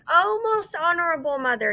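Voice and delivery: gasping it out after running hard; panting. Acted. Chang, out of breath, pleading with his mother, panting. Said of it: "he panted".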